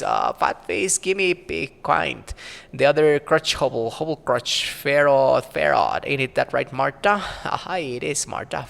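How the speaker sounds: lightly voiced old crone, muttering to herself; a hint of a grumbling crone; mumbling old crone. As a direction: play a cranky old hag talking to herself. Marta names Farrod.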